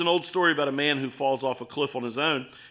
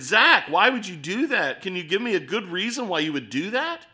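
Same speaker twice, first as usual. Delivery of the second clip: exasperated; 3 semitones higher than usual. Retold or imitated.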